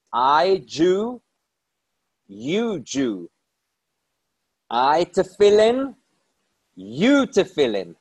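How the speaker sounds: lightly voiced broken English in a Russian accent, slow and deliberate; a hint of an old Russian rabbi, each word set down slowly; heavy Russian accent. Old rabbi to the sulky passenger, hint of Russian accent. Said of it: "with his heavy Russian accent".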